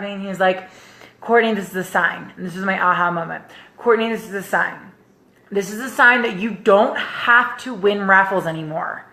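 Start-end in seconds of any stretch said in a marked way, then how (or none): 1.2-2.3 soft, low-key serious quote; imitated earnest consoling. Husband grabbing upset wife, quietly earnest. 3.8-9.0 quiet, steady, serious advice; imitated earnest consoling. Husband advising his upset wife, quietly earnest.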